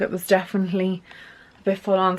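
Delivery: breathless and winded; out of breath. Real, not acted. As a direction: talk short of breath. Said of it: "Sorry, I'm so out of breath".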